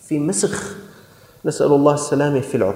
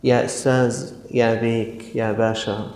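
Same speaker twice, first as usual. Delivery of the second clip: soft, lowered endearing calls; tender address; 3 semitones lower, 4 dB quieter than usual. Shown as a demonstration. Prophet addressing his people, softly affectionate. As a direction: coax his people gently, like friends. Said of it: "وهي إشارة أيها الإخوة".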